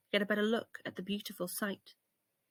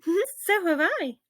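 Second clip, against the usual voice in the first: slow monkey voice; 9 semitones higher, 5 dB louder, slower than usual. Acted. Other monkey replies.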